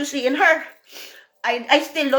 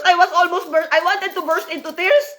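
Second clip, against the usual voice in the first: half-laughing confession, higher pitch; laughing through tears; 6 semitones higher than usual. Real, not acted. To her audience about her jealousy, a real laugh through the words.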